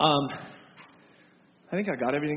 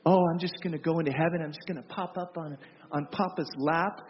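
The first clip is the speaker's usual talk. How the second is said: mocking flippant quote. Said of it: "I hear people talk like this".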